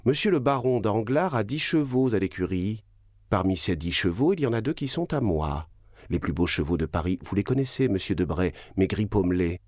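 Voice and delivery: voix plus aiguë, ironie mordante; défi ironique. Acted. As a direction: prendre les messieurs à témoin avec sarcasme. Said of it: "continua la baronne". (la baronne humilie son mari devant ses invités, voix plus aiguë et ironique)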